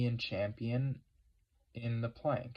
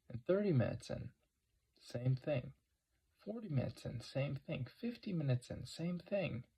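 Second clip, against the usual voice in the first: incredulous; 5 semitones higher than usual. Real, not acted. Incredulous listing, rising pitch.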